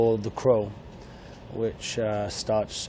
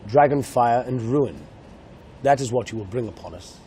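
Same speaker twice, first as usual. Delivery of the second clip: grave film line in a posh English accent; 4 dB louder than usual. Shown as a demonstration. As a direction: read the dragon line like an Englishman, solemn. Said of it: "if I spoke in English, it would be".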